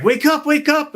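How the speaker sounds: high-pitched mock urgent wake-up call; urgent rousing. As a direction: act out shaking a sleeper awake. Rancher trying to rouse sleeping hand.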